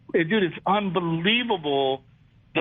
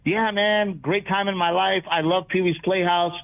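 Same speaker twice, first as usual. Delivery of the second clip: mock easygoing advice; 3 semitones higher than usual. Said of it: "And I'm like".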